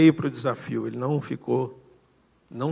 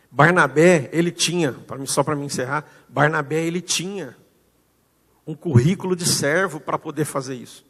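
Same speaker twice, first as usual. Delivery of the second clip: emphatic preaching; 2 semitones higher, 4 dB louder than usual. Real, not acted.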